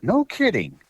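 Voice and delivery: high, mock-amazed reply; a buddy's disbelief, voice shooting up; imitating Joe. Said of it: "he'd say".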